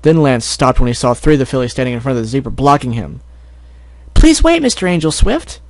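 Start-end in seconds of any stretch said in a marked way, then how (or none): 4.1-5.6 high little filly begging him to wait; a much higher, pleading young voice. Acted. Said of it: "Sweetie Belle pleaded".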